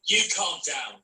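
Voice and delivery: angry retort. Acted. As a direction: throw it straight back at him. Heated quarrel on train.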